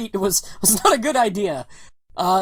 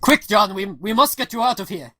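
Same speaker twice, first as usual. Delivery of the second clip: put-on urgent Russian accent; Russian comrade hurrying someone along; lightly voiced Russian rescuer. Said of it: "He goes".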